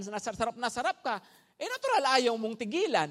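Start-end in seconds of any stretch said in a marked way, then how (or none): 1.5-3.1 higher, louder, driving the point home; preaching punch; emphatic preaching. Acted. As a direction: hammer the word natural. Preacher peaks on natural.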